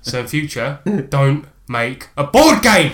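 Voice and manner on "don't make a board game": loud, slow laughing scold; laughing mock scold. Real, not acted. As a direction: scold him through a laugh. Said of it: "mock scolding, laughing".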